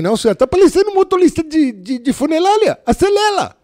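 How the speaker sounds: high, loud mocking retort that copies "funelália"; mock shout. Rookie fires back at the boss, shouting high and mocking. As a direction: yell back in her own lingo.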